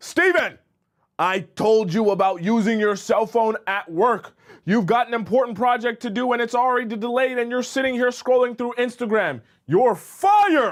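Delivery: furious, angry bawling yell, pitched high. Retelling an imagined scene where an angry boss yells at a coworker: imitating an angry boss yelling. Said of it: "he yells at your coworker".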